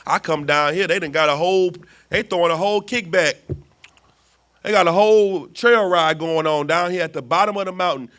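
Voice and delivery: God venting about his people; fed-up Lord. Retold or imitated. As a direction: build from grumble to outrage. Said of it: "was like".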